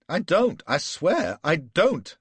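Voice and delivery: very high, loud frantic shout; panicked shout. A narrator's reading. Flashman shouting at Gul that he swears he doesn't know. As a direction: shout the denial in terror. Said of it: "I shouted".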